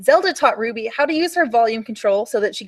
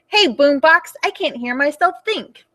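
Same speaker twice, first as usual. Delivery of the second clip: mild mock shout; 4 semitones higher than usual.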